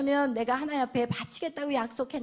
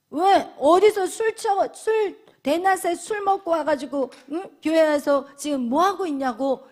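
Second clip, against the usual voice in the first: scolding priest; 5 dB louder than usual. Retold or imitated. Eli scolding the weeping woman as drunk, mock angry. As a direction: rebuke her like a grumpy old priest. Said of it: "이러면서 이 엘리 제사장이".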